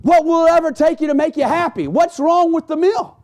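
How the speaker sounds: a fed-up wife pleading with a husband she can never please; frustrated wife. Retold or imitated. Wife to grumpy husband after the big breakfast, exasperated. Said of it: "She's just frustrated".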